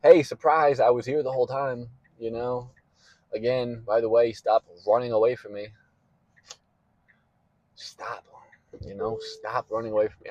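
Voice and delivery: loud exasperated scolding as God; angry dressing down. Retold or imitated. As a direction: scold him loudly for running away. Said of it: "God will be like".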